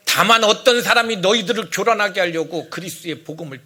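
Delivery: firm, loud scripture warning; forceful, uncompromising reading; resolute. Acted. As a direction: declare it sternly, leaving no room for argument. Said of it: "아주 그들에게 단호하게 얘기해요".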